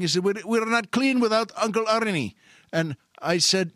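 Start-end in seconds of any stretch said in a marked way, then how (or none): 0.2-2.3 slightly raised, higher insistent voice; clerk's protest. Retold or imitated. Store clerk objecting to the shopper, mildly raised protest.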